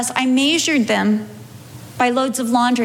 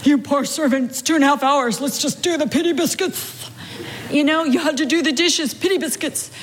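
higher, sing-song pity chant; coddling self-pity; 4 semitones higher than usual. Retold or imitated. Her own self-pity voice feeding her pity biscuits, sing-song. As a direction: dole out pity biscuits sweetly.

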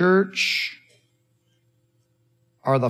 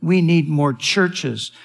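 pleading pastors; 3 semitones higher than usual. Retold or imitated. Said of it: "men who are pleading and saying".

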